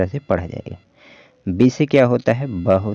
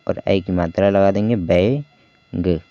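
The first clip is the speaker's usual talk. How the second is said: slow sounding out; slower than usual. Shown as a demonstration. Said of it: "देखिए यहाँ पर".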